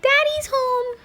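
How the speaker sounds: high, stretched loud announcement; announcing call. Real, not acted. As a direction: sing out the arrival like a herald. Announcing dad's arrival.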